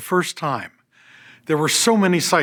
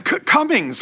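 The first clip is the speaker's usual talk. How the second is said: blurted out; 11 semitones higher than usual. Retold or imitated. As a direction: burst out with the name, caught off guard. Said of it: "I blurted out".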